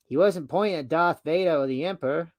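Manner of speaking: amateur Australian reading voice; failed Australian accent. Acted. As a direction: try an Australian accent and miss. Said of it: "See, I can't do Australian".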